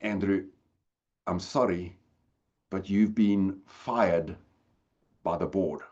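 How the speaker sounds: a hint of Johan's Afrikaans accent, delivering bad news. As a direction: Afrikaans accent, regretful and slow. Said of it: "he had an accent 'cause he spoke Afrikaans".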